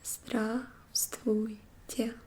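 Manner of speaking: slow learner's model of "Здравствуйте"; very slow demo. Shown as a demonstration. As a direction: whisper "Здравствуйте" very slowly.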